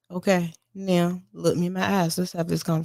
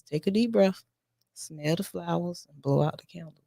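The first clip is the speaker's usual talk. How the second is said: calming coaching voice; 5 dB quieter than usual. Shown as a demonstration. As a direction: ease the child down gently. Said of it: "I always tell my kids".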